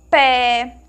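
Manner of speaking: pé with a long, open "é"; open vowel. Shown as a demonstration. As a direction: hold the é of pé wide open. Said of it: "tem um som mais aberto". (pé com "é" bem aberto)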